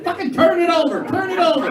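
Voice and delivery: high, pleading frustration; frustrated plea. Retold or imitated. Man to a woman who won't start, high frustrated begging. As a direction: beg it high and exasperated, like a stalled engine. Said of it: "you're just like".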